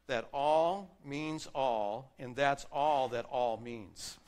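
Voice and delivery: slow, drawn-out preacher's saying; old radio preacher. Retold or imitated. Pastor quoting an old radio preacher, slow and emphatic. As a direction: savour it like a preacher's catchphrase. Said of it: "old radio preacher who liked to say".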